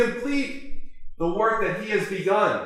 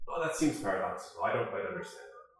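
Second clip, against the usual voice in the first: skeptical listener; 11 semitones lower, 10 dB quieter, faster than usual. Acted. Imagined listener raises objection.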